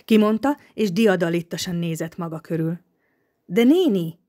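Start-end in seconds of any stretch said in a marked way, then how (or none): 3.4-4.2 reproachful. A narrator's reading. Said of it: "szólalt meg szemrehányólag".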